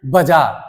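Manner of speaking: बाजार said "bajaar", short first vowel; common mispronunciation. Shown as a demonstration. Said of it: "कुछ लोग बोल देते हैं".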